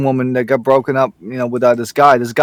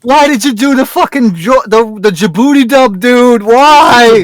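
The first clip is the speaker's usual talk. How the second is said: mock outrage; 8 semitones higher, 4 dB louder, slower than usual. Outraged at friend's food choice.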